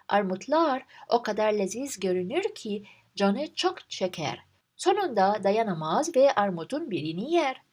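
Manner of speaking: steady, even storytelling read; relaxed Turkish story narration. Acted. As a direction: read the tale aloud like a storyteller. Reads story without explanation.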